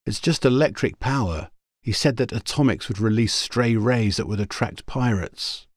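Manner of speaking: put-on puzzled young woman. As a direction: explain with mild puzzlement. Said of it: "she shook her head puzzledly".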